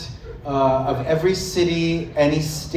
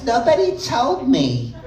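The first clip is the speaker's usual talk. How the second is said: higher Queens accent, laughing; a Queens New York accent, pitched up; 8 semitones higher than usual. Shown as a demonstration. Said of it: "it's a little more like this".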